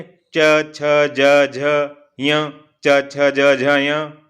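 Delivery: each palatal letter sounded out clearly; teacher sounds out palatal letters; letter drill. Shown as a demonstration. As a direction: model every letter distinctly for students. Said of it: "इनको उच्चारण करके आप देखें".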